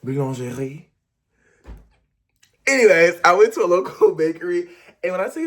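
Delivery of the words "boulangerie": lightly put-on French lilt on boulangerie; playful French accent; mock French bougie. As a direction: say boulangerie like a fancy Parisian. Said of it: "I feel so bougie".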